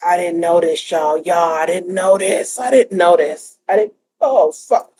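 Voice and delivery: stunned host repeating she didn't know; shaken and upset. Real, not acted. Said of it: "I'm upset a little bit".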